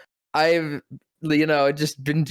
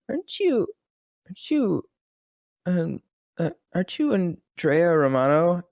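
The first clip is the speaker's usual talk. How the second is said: starstruck; 5 semitones higher than usual. Retold or imitated. Starstruck recognition of famous director.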